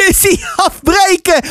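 high-pitched playful call; calling out, amused. A narrator's reading. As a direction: join in calling the retreat. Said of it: "riep ik, ook lachend".

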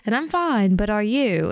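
lightly put-on British accent; British accent, retold texts; imitated British accent. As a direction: read his texts in mock British. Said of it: "like, a British accent".

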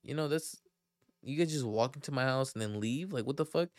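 lightly voiced angry woman; mock angry lady. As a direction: imitate an upset homeowner. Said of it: "she's like".

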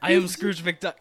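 deep Scrooge voice. Acted. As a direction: go low and Scottish as the old duck. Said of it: "You're going deeper for Scrooge".

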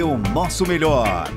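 ordinary talk, nothing marked

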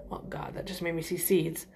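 hushed unvoiced whisper. Real, not acted. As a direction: breathe it out in a whisper. Reacting to spicy salsa.

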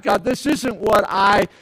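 slow, weary complaint to God; a tired gripe, drawn out; mild complaint. Retold or imitated. Elijah complaining to God, slow and weary. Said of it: "complaining to God".

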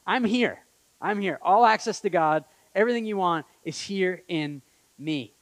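loud, high, ringing announcement; booming invitation, voiced as Jesus; proclaiming Jesus. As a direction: call it out like Jesus offering himself.

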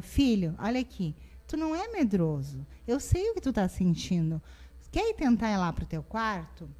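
put-on calm the child kindly; tender parent reassuring her son; gentle reassurance. Shown as a demonstration. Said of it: "fala o contrário".

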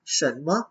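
เฉินเมอ with a curled-tongue aspirated ch; careful standard เฉินเมอ with a crisp ch onset; standard Mandarin pronunciation. Shown as a demonstration. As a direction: say เฉินเมอ textbook-correct, ch clearly sounded. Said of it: "ก็ต้องออกเฉินเมอแบบนี้เลย".

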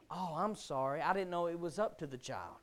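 low, hushed mock apology; sarcastic apology. Real, not acted. Preacher answering excusing parents, sarcastic apology. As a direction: drop low and soft with dry sarcasm.

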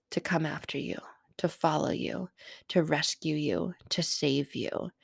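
soft, slowing, hushed delivery; quietly reassuring, unhurried; tender reassurance. Real, not acted. Tender reassurance of being rescued.

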